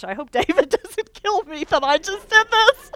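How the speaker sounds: high voice breaking into laughter; real laughter while imagining David's reaction; laughing worried. Real, not acted. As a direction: laugh through the worry about the husband. Laughing at own rashness.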